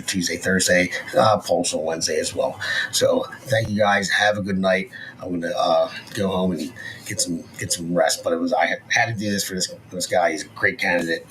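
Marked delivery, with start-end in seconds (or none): 2.9-8.2 tired, groggy sign-off; drowsy after a procedure; groggy from anesthesia. Real, not acted. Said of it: "I'm a little groggy and my throat's all sore".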